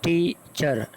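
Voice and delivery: टीचर split into two beats, tee, char; syllable by syllable. Shown as a demonstration. Teacher answering a syllable question, टीचर broken in two. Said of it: "How many syllable are there in teacher?".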